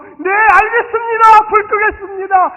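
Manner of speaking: high, loud and slow, beaming yes; joyful reply. Pretend. Husband answering his wife's request with hammed-up joy. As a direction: answer like the happiest servant. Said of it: "기쁜 마음으로".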